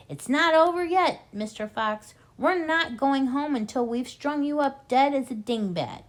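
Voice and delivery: loud, high, gloating threat; shouting. A narrator's reading. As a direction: shout down the hole at the trapped fox. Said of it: "shouting down the hole".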